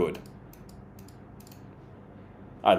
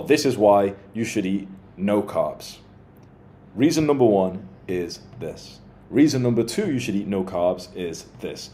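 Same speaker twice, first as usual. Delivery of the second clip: clear point-making. Shown as a demonstration. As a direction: lay out each reason with measured pauses. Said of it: "Imagine if you worded it like this".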